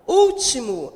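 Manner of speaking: "Último" with weight on the opening Ú; stress on Ú. Shown as a demonstration. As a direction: lean on the first syllable of "Último". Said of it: "a sílaba tônica é o u". ("Último" com ênfase no Ú)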